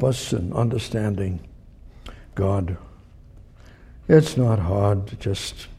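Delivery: earnest prayer to God; closing prayer. Acted. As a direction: lead the congregation in prayer.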